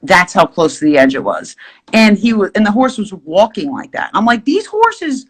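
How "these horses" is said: mock guide voice.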